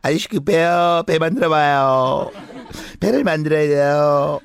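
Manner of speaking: loud, slow, insistent pleading; urgent voice. Acted. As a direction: press hard with urgency. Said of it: "다급한 목소리".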